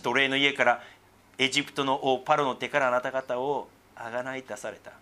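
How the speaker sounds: solemn Bible reading; scripture reading. Acted. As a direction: read it out like a lesson in church. Reads scripture aloud.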